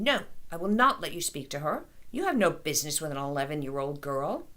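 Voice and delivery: a moderate, protective yell; mother yelling at the carny to protect her girl. Acted. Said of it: "Maya was yelling".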